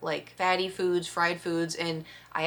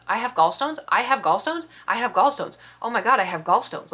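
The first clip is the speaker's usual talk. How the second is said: repeating it higher and louder in a spiral; rising panic; 3 semitones higher, 4 dB louder than usual. Retold or imitated. Panicking in her head over her diagnosis, louder. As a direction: panic building with each repeat. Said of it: "In my head, I'm like".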